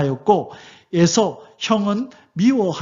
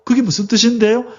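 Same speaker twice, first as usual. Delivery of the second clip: puzzled Israelites; 4 semitones higher than usual. Retold or imitated. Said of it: "이스라엘 백성은 못 알아듣는 거예요".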